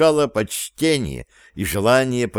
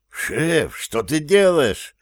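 high, slow horrified cry; 6 semitones higher, slower than usual. A narrator's reading. Sapkar horrified as the boss burns the papers, high and slow. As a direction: gasp it out in disbelief. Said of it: "ужаснулся в очередной раз Сапкар".

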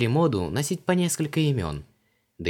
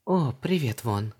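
ordinary delivery

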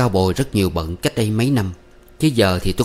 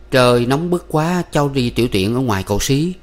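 higher, slowed opening, lightly faltering; hesitant excuse; 4 semitones higher than usual. Acted. Young man explaining himself to the suspicious uncle, mildly hesitant. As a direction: offer a halting excuse to an elder. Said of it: "Tôi ấp úng đáp".

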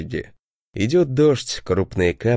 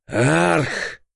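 short feral roar, pitched up; beastly roar; 5 semitones higher than usual. A narrator's reading. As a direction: roar like a cornered predator. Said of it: "звериным, неистовым рёвом".

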